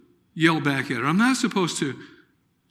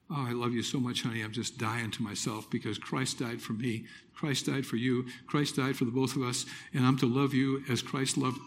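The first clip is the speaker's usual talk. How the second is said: tender reassurance; 4 semitones lower, 5 dB quieter than usual. Retold or imitated. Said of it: "I said".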